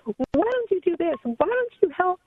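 older sister scolding little sister, mild mock yell; retold yell. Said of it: "my older sister would yell at me".

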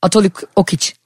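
word said backwards; backwards speech. Shown as a demonstration. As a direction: say it reversed, letter by letter. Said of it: "hemen tersten çevireyim".

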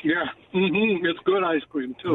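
chewing while talking; mouth full. Real, not acted. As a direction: talk through a mouthful of ice cream. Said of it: "I caught you eating ice cream".

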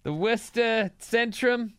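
put-on Boston accent, drawn out. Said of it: "your Boston accent".

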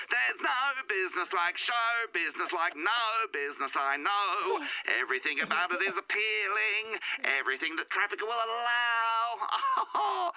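slow, high belted show-tune impression; a Broadway singer. Caller belts out an impression of a Broadway singer, slow and high. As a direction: belt it out like a Broadway diva, slowly. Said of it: "I can do a terrific Broadway singer".

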